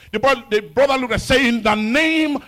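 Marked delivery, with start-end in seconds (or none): 1.4-2.4 slow then shouted rebuke in Jesus' name; loud rebuke. Retold or imitated. Brother defying the old man, shouting in Jesus' name. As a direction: thunder the rebuke at him.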